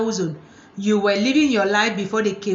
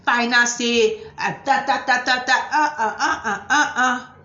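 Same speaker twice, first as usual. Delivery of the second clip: mock macho man. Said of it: "this typical African man thing".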